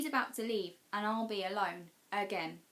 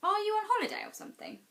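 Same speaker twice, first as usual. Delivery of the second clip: put-on boy's voice, much higher and louder; curious boy; 13 semitones higher, 6 dB louder than usual. A narrator's reading. Boy asking Marinka if she's visiting, higher boyish voice. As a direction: ask it brightly as the boy.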